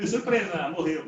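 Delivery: mock surprise announcement. Shown as a demonstration. Helper breaks the news the wrong way, mock-cheerful. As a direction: play it as a tactless ta-da. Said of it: "A gente não fala assim".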